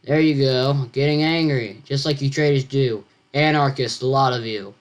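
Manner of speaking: flat monotone reading. Acted. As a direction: read it in a monotone. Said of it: "read this in monotone voice".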